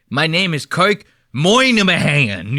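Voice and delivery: slow, hammed-up Boston accent; mock Boston accent. Host mocking how Kirk says his name, overdone Boston accent. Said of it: "Don't give me that Boston Moynihan shit".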